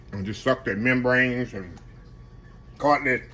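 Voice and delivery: talking while chewing; mouth full. Real, not acted. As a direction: speak through a mouthful of food. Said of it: "Excuse my, excuse my eating".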